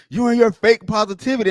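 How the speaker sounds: imitating a troll's high, loud, sneering jab; hammed-up scornful dig; mocking sneer. Troll mocking her fake positivity, mock sneer.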